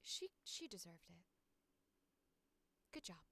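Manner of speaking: put-on soft, gentle talking-to for a child; hushed, halting reprimand that gives way to approval; happy little character line. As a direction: gently scold a little kid, then quietly give in. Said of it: "I'll do this little happy line".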